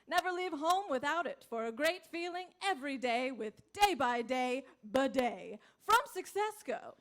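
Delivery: upbeat infomercial pitch; ad read. Acted. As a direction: sell the product with a grin. Ad closing read.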